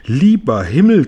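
hoch und laut herausgequietscht; Quietschen. A narrator's reading. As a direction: quiekt vor Schreck. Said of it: "quietschte Tante Zinke". (lautes, hohes Quietschen)

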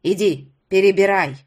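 put-on loud nasty old woman's command; obnoxious shouted order. A narrator's reading. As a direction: bark the order like a disagreeable crone. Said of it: "крикнула громко и противно".

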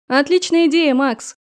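loud cheer through a door; shouting. Acted. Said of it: "крикнула Еваника из-за двери".

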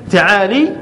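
تعالي said ta'ālī, with an "ee" ending; kasra on the lam. Shown as a demonstration. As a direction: end تعالي on a long "lee". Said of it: "من كسر اللام".

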